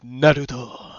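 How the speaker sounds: drawn-out Naruto call in character; Kurama. Shown as a demonstration. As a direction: say NARUTO slowly, stretched out like an anime character. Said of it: "That'd be like".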